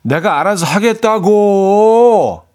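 하겠다고 slow, loud, long drawn 고; sulky teen drawl. Shown as a demonstration. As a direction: whine 하겠다고 like a moody teen. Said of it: "중이 병 애들이 하는 그 톤이 있거든".

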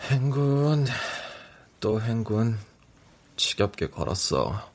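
exhausted, sinking low; drowsy, dragging words; sleep deprived. Acted. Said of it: "졸음이 쏟아지는 상태".

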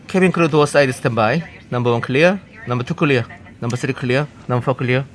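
flight attendant announcement. Pretend. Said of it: "이 중요한 멘트 제가 한번 해보겠습니다".

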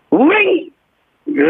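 short high engine revs; motorbike revving. Retold or imitated. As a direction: blip the throttle twice. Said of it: "불법 오토바이 달리는 소리".

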